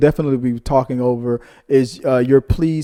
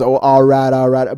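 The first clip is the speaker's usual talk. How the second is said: louder, punchy all right; Kevin Hart imitation; 8 dB louder than usual. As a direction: bark it out, loud and eager. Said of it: "'cause Kevin Hart goes".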